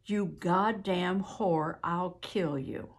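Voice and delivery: slow, restrained quoted threat; reluctant retelling. Retold or imitated. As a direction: repeat the threat slowly and heavily, without shouting. Witness reluctantly repeats a threat.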